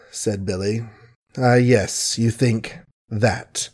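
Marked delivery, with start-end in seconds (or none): 1.4-3.7 slow, deliberate words; stunned man speaking slowly and precisely; carefully articulated. Acted. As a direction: place every word with care. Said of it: "very careful in articulating his words".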